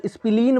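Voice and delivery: "स्प्लीन" stretched out as "is-pi-leen"; variant pronunciation. Shown as a demonstration. Teacher citing another way people say it, variant pronunciation. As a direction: break the cluster in "स्प्लीन" with an extra "i". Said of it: "बोलें तो वो बात अलग है".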